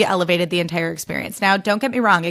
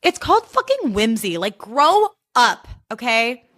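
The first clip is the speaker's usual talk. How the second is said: exasperated; 4 semitones higher, slower than usual. Retold or imitated. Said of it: "I'm like".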